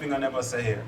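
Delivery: Jamaican proverb. Shown as a demonstration. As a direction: model the Jamaican patois deliberately. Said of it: "I give a Jamaican proverb".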